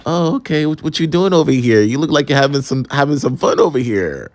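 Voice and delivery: sassy guy. Retold or imitated. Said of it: "this man was a little bit sassy".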